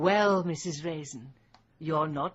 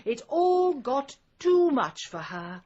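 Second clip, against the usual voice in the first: mock pity; 5 semitones higher, 5 dB louder than usual. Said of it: "they'll say".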